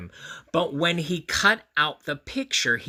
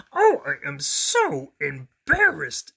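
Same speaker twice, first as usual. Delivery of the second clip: slow, louder mortified monster voice; embarrassed Grover; 2 semitones higher, 7 dB louder, slower than usual. A narrator's reading. Grover walking in late before everybody, slow and mortified. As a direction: drag it out, mortified. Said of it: "thought Grover".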